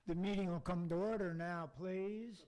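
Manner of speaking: booming gavel-call to the hall; loud call to order. Acted. Chairman calling meeting to order.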